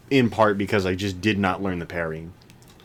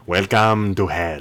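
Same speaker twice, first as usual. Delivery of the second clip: Skinner impression; 3 semitones lower, slower than usual. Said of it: "Skinner just looks at me and goes".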